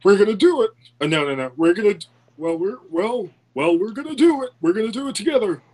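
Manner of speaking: a lightly voiced, raspy-claimed Biden; half-hearted old politician; Joe Biden impression. Friend attempts a Joe Biden impression on request. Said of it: "trying to do a Joe Biden impression".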